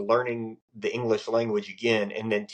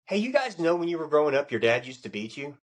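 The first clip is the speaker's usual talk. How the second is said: casual generalizing; 5 semitones higher than usual. Shown as a demonstration. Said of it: "easy for me to say".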